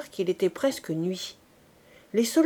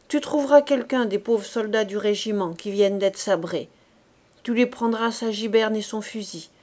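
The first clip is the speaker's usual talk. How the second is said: a terse veteran giving orders; gruff corporal. Acted. Corporal to raw recruit Fabrice, gruff orders. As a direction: hurry the green recruit.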